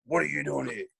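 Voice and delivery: Martin Pike. Retold or imitated. Opponent sledging a skinny young rookie before first bounce, mock taunt. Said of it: "I hear this voice".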